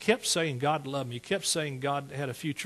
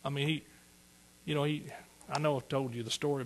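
ordinary delivery

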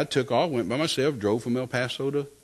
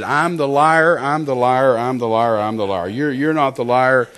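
louder, insistent admission; emphatic confession; 6 dB louder, slower than usual. Retold or imitated. Man conceding to God at once, emphatic confession. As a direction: re-enact a hasty, repeated concession.

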